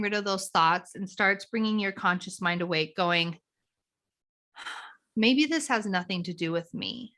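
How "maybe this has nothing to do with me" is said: nurturing, curious. Shown as a demonstration. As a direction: wonder aloud, kind to yourself. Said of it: "a very nurturing, curious part".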